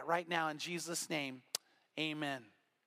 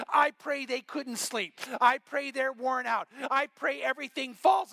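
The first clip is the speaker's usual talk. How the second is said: fiery curse prayer; 4 semitones higher, 4 dB louder than usual. Retold or imitated. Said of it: "shocked his church".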